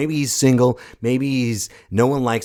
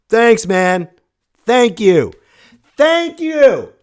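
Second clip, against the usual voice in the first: mock grateful bartender; 13 semitones higher, 9 dB louder, much slower than usual.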